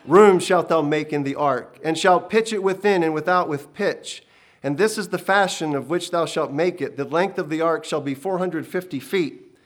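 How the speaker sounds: loud, booming divine instructions; a commanding heavenly voice; voice of God. Acted. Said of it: "as the voice continued".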